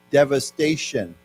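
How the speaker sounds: devastation said slowly and clearly; slow model word. Shown as a demonstration. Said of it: "as a noun".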